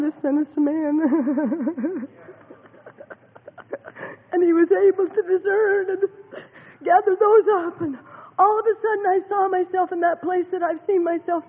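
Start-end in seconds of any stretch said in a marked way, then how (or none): 4.3-11.4 choked up, fighting tears; tearful, trembling testimony; crying. Real, not acted. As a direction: voice breaking with tears.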